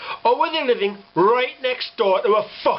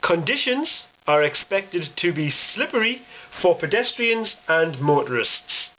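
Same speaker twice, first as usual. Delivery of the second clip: weatherman read. Retold or imitated. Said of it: "the weatherman actually said".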